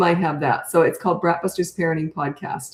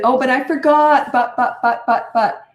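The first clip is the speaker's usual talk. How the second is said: put-on high, louder childish protest; whiny kid excuse; 6 semitones higher, 5 dB louder than usual. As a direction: whine the excuse like a caught kid. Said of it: "No, they'll, they'll".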